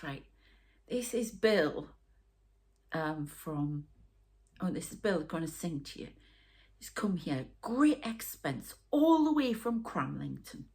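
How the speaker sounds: lightly voiced Geordie club announcer. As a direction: imitate a Geordie compère introducing an act. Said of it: "in a Geordie voice".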